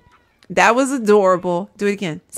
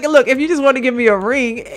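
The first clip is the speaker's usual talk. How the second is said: a hint of a coy girlfriend, a bit louder; lightly voiced girlfriend hint; 4 semitones higher, 4 dB louder than usual. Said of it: "she was just like".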